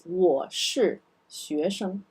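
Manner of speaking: 我是学生 said slowly again for learners; slow careful model 我是学生; 我是学生 read slowly; model sentence. Shown as a demonstration. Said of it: "This is a Chinese".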